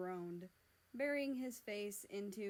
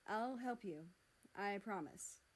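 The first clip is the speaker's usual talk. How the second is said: sincere vow. Acted. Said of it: "vowed sincerely".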